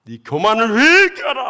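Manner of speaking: god's stern rebuke. Retold or imitated. Preacher voicing God rebuking the deacon in a dream, booming. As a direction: thunder down judgment on the proud deacon. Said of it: "막 주님이 얼마나 책망을 했던지요".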